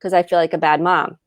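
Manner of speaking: mildly indignant, imitating her own shame; defensive denial. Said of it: "going into shame and going".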